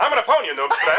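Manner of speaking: gamer taunt. Pretend. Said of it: "Just say".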